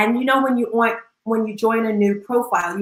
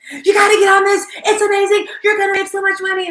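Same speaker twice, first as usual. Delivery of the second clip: high, louder eager sales pitch; excited pitch; 10 semitones higher, 4 dB louder than usual. Retold or imitated. Ashley urging Tina to join the app, high eager pitch. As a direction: push it like an eager friend who won't let go. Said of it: "she's so excited".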